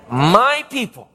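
slow, lightly voiced heavenly call. Preacher completes heaven's call to God's people, slow light summons. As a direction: stretch it gently into a summons. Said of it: "I heard another voice from heaven saying".

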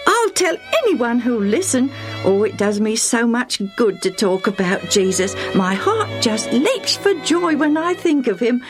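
lively, lifted, heartfelt delight; overjoyed. Acted. Lucius telling how he loves Jesus, joyfully. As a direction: gush with joy, pitch leaping up.

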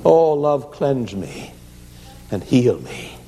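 crying out. A narrator's reading. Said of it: "he cried out".

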